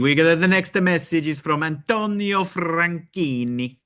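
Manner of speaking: slow, hammed-up Italian accent; fake Italian accent. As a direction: roll the name like a Godfather mobster. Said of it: "I need to do my fake Italian for that".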